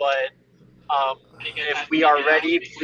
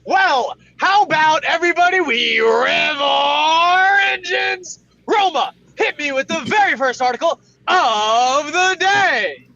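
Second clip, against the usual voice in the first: loud, fast morning show announcer; radio host; 11 semitones higher, 4 dB louder, slower than usual. Acted. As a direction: hype up the show like a DJ. Host hands over to Roma.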